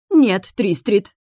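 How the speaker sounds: slow loud scared cry; frightened cry. A narrator's reading. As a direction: cry out in fear, dragging it. Frightened witch refuses. (испуганный крик)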